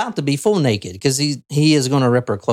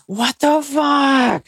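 high, slow gasp of horror; waking from choking, stunned; gasping shock; 10 semitones higher, much slower than usual. Acted. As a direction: gasp and drag it out in disbelief. Victim gasping awake in shock.

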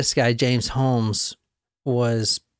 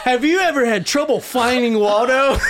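infomercial voice; 9 semitones higher than usual. Pretend. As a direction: pitch the product like a TV ad. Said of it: "like an infomercial".

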